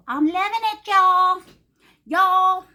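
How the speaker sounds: exaggerated mock Southern redneck voice; hammed-up redneck accent. Shown as a demonstration. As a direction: ham up a hick drawl for laughs. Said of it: "Boy, do I sound like a redneck".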